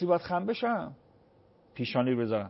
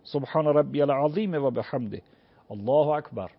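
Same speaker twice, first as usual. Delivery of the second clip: prayer recitation. Shown as a demonstration. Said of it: "همون ایستادگی رکوع تو اشاره کن".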